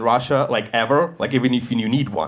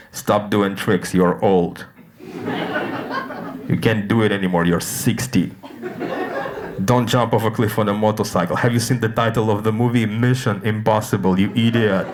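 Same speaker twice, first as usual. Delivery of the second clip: evil Simon Pegg; 5 semitones lower than usual. Retold or imitated. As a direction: sneer down the earpiece at an old star. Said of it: "So he would say".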